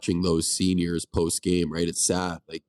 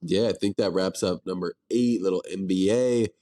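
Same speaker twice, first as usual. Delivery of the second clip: blocked nose from the flu; stuffy nose. Real, not acted. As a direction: talk through a stuffed-up nose. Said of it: "I apologize for my nasally voice and my sniffles".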